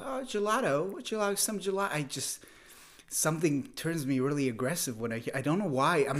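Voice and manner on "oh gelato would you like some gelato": quick, higher British imitation; British tourist offering gelato; mock British accent. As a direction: put on a fussy British accent. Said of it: "I don't like how British people talk".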